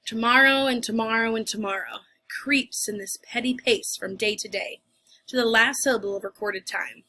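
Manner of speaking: loud, theatrical recitation, slow in places; dramatic monologue. Acted. Teacher performing Macbeth for her class, in a loud theatrical voice. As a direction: deliver it like a weary king on stage.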